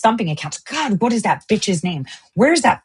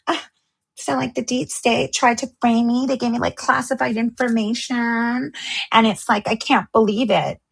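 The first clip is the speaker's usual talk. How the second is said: lightly voiced fake victim; mock gushing influencer; 2 semitones higher than usual.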